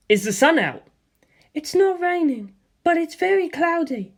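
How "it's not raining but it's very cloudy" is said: higher, puzzled mother. A narrator's reading. Mother on the phone asks her son what is going on, puzzled. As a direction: voice the mother, confused and cheerful.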